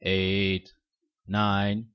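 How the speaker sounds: Count voice. Retold or imitated.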